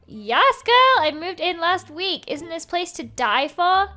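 put-on high, loud girl on girl sass; sassy Joey. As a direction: gush like a fabulous friend.

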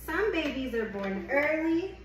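gentle picture-book read-aloud; reading to a child. Acted. Reads picture book to baby.

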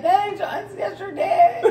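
husband blurting out the correction, a laughing mock shout. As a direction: yell the correction through laughter. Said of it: "my husband was like".

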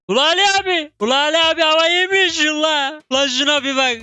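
hammed-up Laz accent egging on Ali abi. Streamer cheering his unit on in a hammed-up Laz accent. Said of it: "Ya bu Laz aksanı nereden geldi".

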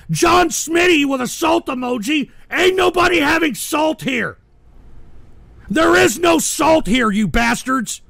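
high and loud, slowing on no salt here; fed-up shout at trolls; exasperated shout. Real, not acted. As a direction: yell at the chat, fed up. Yelling about salt emojis.

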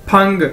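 "फंग" as one syllable starting with फ; careful teacher's "फंग"; demonstrated pronunciation. Shown as a demonstration. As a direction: model "फंग" for learners. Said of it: "कैसे बोलेंगे इसको".

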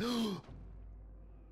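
high, voiceless gasp; startled intake of breath; sharp gasp. Real, not acted. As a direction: suck in air suddenly, long and breathy. Acts out or reacts to chopping.

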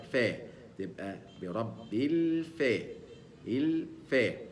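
الفاء with a thin ف, slow; الفاء drawn out, light; light fa demo. Shown as a demonstration. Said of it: "ينطق هكذا". (الفاء مرققة ببطء)

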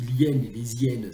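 "l'hyène et les hyènes" as "lyène", "lé-zyène"; correct liaison. Shown as a demonstration. Translator citing his unexplained correct form, z liaison. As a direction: elide the article, then sound the z of "les". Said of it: "pourquoi je disais ça comme ça".

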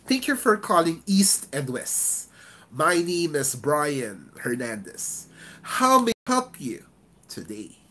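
slow, open-mouthed greeting with a big smile; expansive, smiling agent voice. Shown as a demonstration. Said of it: "open your mouth and smile".

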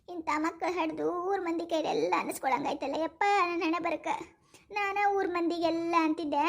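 low, soft, slow wailing lament to God; tearful lament. Acted. Mother lamenting her daughters to God, low tearful wail. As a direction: moan it out like a mother weeping over her fate. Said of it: "ಗಪ್ಪಗ ಅಳಬೇಡ".

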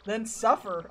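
curt dismissive. Retold or imitated. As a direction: shrug it off coldly. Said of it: "I'd be like".

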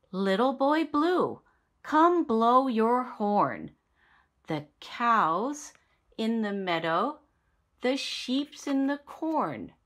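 sing-song reading for little ones; nursery rhyme reading. Acted. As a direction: recite it like storytime with toddlers.

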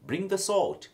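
high, loud call from mother; mother calling out over a scraped child; Mama calling out. Retold or imitated.

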